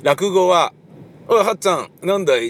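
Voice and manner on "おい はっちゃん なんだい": rakugo dialogue in one unchanged voice; both speakers voiced alike, lightly raised; ракурс ракуго. Shown as a demonstration. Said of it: "同じ声の出し方をする".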